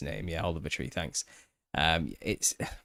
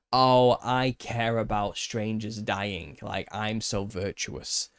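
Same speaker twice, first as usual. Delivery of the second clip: mocking virtue signaller. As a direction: drag it out like a smug show-off mourner. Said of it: "It's a virtue signal of".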